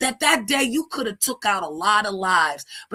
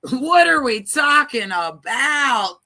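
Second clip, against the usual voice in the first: slow, drawn-out mocking echo, higher and louder; mocking repeat; 4 semitones higher, 6 dB louder, slower than usual. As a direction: throw her words back at her, slowly and with scorn.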